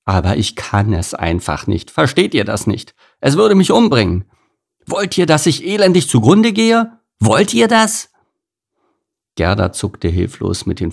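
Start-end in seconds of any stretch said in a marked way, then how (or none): 0.1-8.1 desperate. A narrator's reading. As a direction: plead with rising pitch and volume. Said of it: "Dann stieß sie verzweifelt aus".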